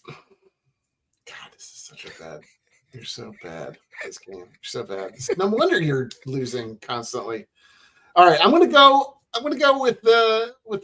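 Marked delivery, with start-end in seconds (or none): 0.1-5.1 whispered trash talk, far softer; under breath. Real, not acted. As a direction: mutter the insult so only he hears. Trash talks opponent under breath.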